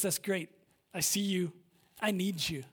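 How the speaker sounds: a quiet, calm divine voice; soft voice of God. Pretend. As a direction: speak it gently as God would to a worker. God's voice quoted in sermon.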